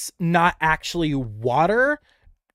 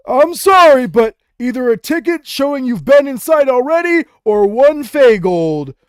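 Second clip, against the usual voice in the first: high, loud goblin voice, slowing at the end; a fussy old goblin blocking the gate; goblin gatekeeper; 9 semitones higher, 8 dB louder than usual. Acted. A high, loud goblin telling the party to pay.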